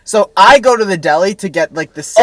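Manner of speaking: tinny, like in a tin can; hollow tin can sound; metallic voice filter. Real, not acted. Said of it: "sounds like he's in a tin can".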